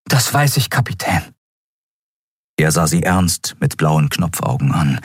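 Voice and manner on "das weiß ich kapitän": hohe, eifrige, bittende Stimme; eifriger junger Miko. Acted. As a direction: eifrig und höflich den Kapitän bitten. (Miko bittet den Kapitän eifrig und hoch)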